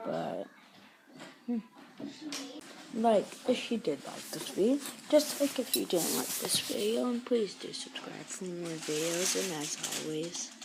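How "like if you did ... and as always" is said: softer, flat sign-off; low-key outro. Real, not acted. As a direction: mumble through the outro again. Repeated sign-off, subdued.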